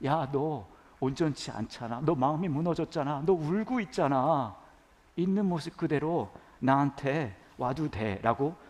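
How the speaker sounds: a light hint of Jesus comforting a weeping person; tender Jesus. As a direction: invite the hurting to come as they are. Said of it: "그렇게 말씀하시는 거예요".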